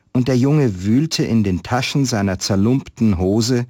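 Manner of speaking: calm storyteller reading a Christmas tale; story narration. Acted. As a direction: read it like a story to listeners. Reads a Christmas story aloud. (Weihnachtsgeschichte vorlesen, ruhig erzählend)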